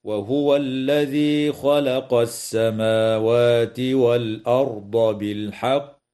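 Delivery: slow chant, final ق of بالحق bounced; Quranic recitation. Shown as a demonstration. Tajweed teacher demonstrating qalqala, slow melodic recitation. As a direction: recite it melodically, echo the ق at the stop. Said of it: "هكذا".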